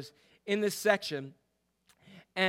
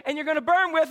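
higher and louder, building up; mock preacher shout; 9 semitones higher, 7 dB louder than usual. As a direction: lead into the crowd's line. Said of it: "and she'd say".

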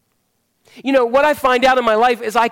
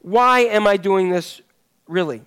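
slow self-question. Shown as a demonstration. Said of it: "when we ask that question".

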